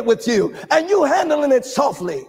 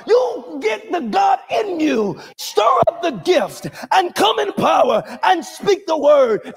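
shouted, rising preacher's cadence; full-force preaching. Real, not acted. Preacher shouting to the congregation about speaking life. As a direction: preach it out to the whole room.

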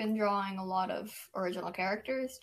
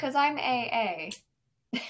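slow emphatic; 2 semitones higher, 3 dB louder, much slower than usual. Real, not acted. Insisting he comes first.

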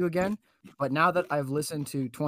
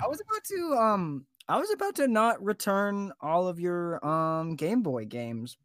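mock threat; 4 semitones higher than usual. Mock threat about games.

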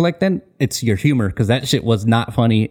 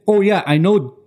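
mocking her; 3 semitones higher than usual. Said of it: "she said".

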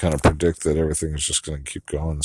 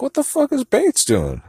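much higher retold disbelief; shocked outburst; 4 dB louder than usual. Retelling her shock at the Downton scene. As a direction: gasp it out in disbelief.

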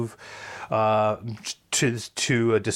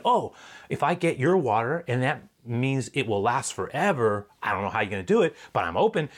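woman's thoughts; 2 semitones higher than usual. Acted. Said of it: "She's thinking".

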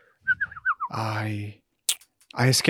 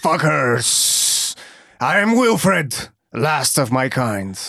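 menacing; slower than usual. Acted. Hamster threatens hunters.

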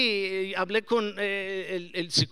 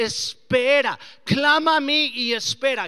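God speaking; 4 semitones higher, 9 dB louder than usual. Retold or imitated. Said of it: "Y Dios dice".

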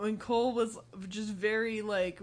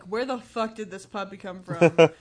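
mock yell; 3 semitones lower, 9 dB louder than usual. Adults yelling about the puppy.

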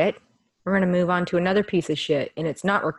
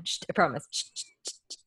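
shushing; 5 dB quieter, much faster than usual. Real, not acted. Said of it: "as quiet as I can".

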